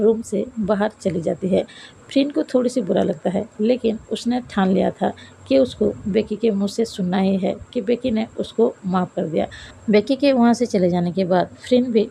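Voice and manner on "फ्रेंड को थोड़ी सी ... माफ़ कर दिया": usual speaking voice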